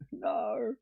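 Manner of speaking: high, drawn-out Aussie "no"; mock dismay. Playing shark panic for chat, mock dismay. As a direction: stretch "no" into a hammy wail.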